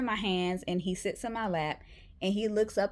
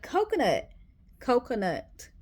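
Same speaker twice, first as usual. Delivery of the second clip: calling the dog; 4 semitones higher than usual. Retold or imitated.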